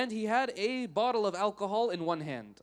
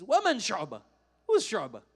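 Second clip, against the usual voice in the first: loud, scornful retold question; demeaning; 2 semitones higher, 5 dB louder than usual. Drunk man asking the students about their scholar, demeaning. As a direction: ask it dismissively, punching it out. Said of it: "like, very demeaning".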